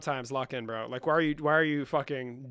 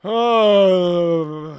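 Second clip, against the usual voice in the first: surprised shout; 5 semitones higher, 17 dB louder than usual. Real, not acted. Sudden loud exclamation on stream.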